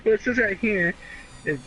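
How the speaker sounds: pompous senator oratory. Acted. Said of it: "You sound like a freaking senator".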